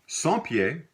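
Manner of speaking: son pied with son jumping high; emphatic son pied. Shown as a demonstration. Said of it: "is called always son pied".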